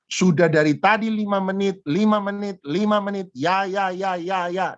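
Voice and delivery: high mock parental rant, easing off at the end; retold loudest yell. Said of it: "Akhirnya saya teriak paling keras".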